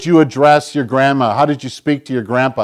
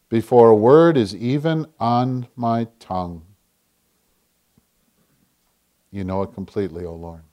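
hushed prayer; 5 semitones lower, 5 dB quieter than usual. Acted. Preacher praying the psalm to the Lord, hushed and fading. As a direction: lower and softer, fading to almost nothing.

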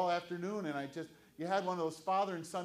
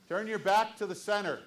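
loud command; 3 semitones higher, 6 dB louder than usual. Real, not acted.

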